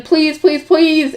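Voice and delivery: high, loud begging; pleading shout. A narrator's reading. Bookworm begging to see the books, pleading shout. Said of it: "His eyes were shouting".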